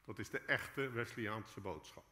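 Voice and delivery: normal talking voice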